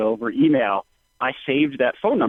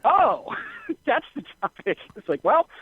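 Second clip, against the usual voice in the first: bemused self; 6 semitones higher than usual. Retold or imitated. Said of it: "I was like".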